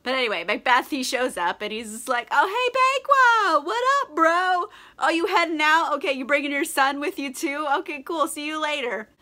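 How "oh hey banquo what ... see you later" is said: much higher, louder, over-friendly bro voice; fake bro greeting. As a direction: greet him like a too-cheery buddy hiding a plot. Macbeth fakes friendliness to Banquo.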